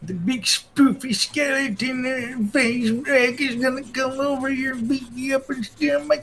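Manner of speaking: hammed-up old geezer muttering threats; mock old man gamer. Husband jokingly voicing the YouTuber's old man.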